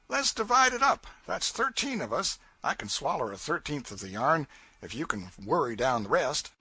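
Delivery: a lightly voiced rough raftsman, jesting; joking raftsman Bill. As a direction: tease the crowd as a rough boatman. Bill proposes splitting the yarn.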